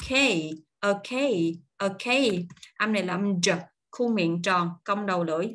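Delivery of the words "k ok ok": "K" said "kay" with stress; "Ok" as "uh-KAY", weight on the second syllable; raised-tone stress. Shown as a demonstration. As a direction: lift the tone on "kay". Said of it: "Nâng một tông giọng lên".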